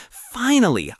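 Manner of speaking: joyful high finally; exasperated relief. A narrator's reading. Repeated word building excitement.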